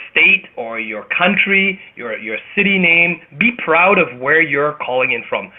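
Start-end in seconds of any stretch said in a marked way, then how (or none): none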